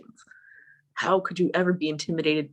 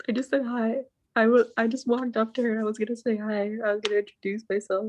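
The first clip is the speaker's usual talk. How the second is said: mock defensive plea; 6 semitones higher than usual. Retold defending herself to the girls.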